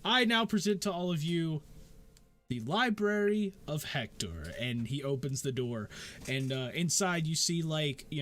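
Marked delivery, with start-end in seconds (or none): 0.0-4.5 grand announcement. Acted. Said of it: "as he says that".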